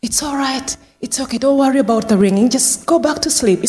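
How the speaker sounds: soothing carer. Retold or imitated. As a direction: settle someone gently back to sleep. Carer soothing an anxious resident.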